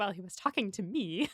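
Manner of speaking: mumbled under the breath. Retelling a scene, quoting one character's aside to another: muttered under breath. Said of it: "under her breath".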